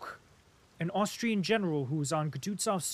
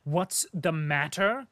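exclaimed; 5 dB louder, slower than usual. Acted. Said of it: "exclaimed Prince Andrew".

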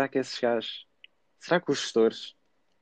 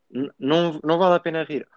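higher, mildly stern teacher; mock stern teacher; 5 semitones higher than usual. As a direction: play the fed-up teacher. Imitated teacher scolding.

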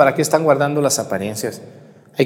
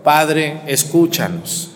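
leading the response; slower than usual. Shown as a demonstration. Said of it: "vamos a decir todos".

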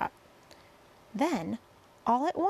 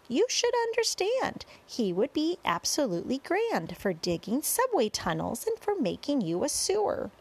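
lightly performed showman's rhyming patter; sing-song verse introduction; 5 semitones higher than usual. A narrator's reading. Boy introducing centipede to crowd, sing-song verse. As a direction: present each guest in bouncy rhyme.

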